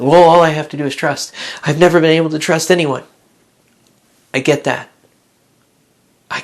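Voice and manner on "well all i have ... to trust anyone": lightly voiced skeptic; doubting listener. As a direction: answer back like a doubter.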